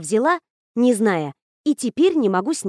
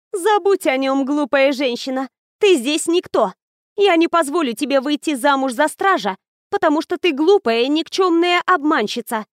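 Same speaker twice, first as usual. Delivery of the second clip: scornful ghost bride; 5 semitones higher, 3 dB louder than usual. Acted. Ghost scorns rival after laughing.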